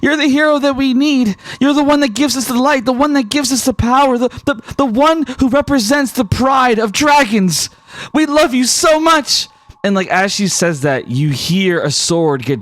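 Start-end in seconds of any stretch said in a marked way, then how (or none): 0.0-9.5 high, earnest, devoted reporter; reporter whispering. Acted. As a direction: reassure the hero fervently. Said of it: "she whispers".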